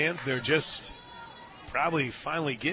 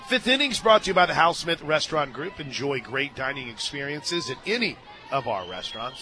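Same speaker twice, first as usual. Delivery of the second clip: upbeat broadcast ad read, easing off at the end; radio sponsorship plug; sponsor read. Real, not acted. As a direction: read the inning's sponsor credit. Reads a sponsor spot.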